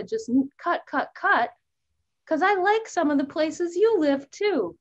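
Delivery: Goldie the warbler. Acted. Teacher playing a warbler for the class, lightly voiced and cheerful. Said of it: "me llamo Goldie".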